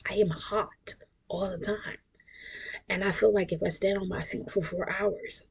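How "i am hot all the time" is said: whispered complaint. Real, not acted. Complaining about hot flashes.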